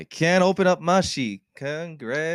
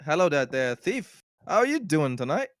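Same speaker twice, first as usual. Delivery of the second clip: character voice; 4 semitones higher than usual. Acted. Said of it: "You got it perfect".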